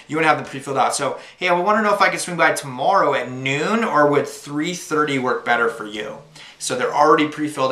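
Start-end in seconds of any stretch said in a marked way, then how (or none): 1.4-6.2 friendly phone pitch. Shown as a demonstration. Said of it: "like you just saw me demonstrate".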